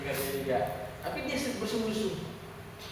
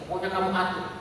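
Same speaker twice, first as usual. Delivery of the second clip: imitated dismissive husband; 3 semitones higher, 5 dB louder than usual. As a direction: lay down the law, rising with each phrase. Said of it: "Gitu ya suaminya". (menirukan suami, makin keras dan tinggi)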